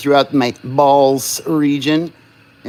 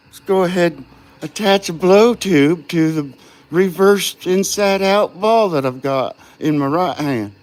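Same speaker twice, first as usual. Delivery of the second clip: a touch higher and slow, like a show host welcoming the crowd; gaffer voice; 5 semitones higher than usual. Pretend. Glassblower doing his gaffer voice for stream viewers, hammed-up host. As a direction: play the smooth host introducing the glass demo. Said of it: "This is my gaffer voice".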